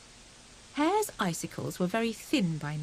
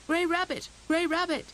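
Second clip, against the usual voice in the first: high calling voice; 9 semitones higher than usual. A narrator's reading. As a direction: call for help across the ice. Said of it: "he called".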